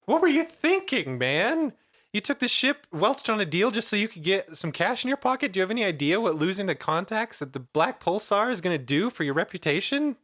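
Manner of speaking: angry. Acted. Character confronts NPC over ship.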